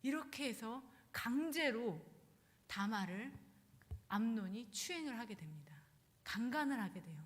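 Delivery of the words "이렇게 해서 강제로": usual speaking voice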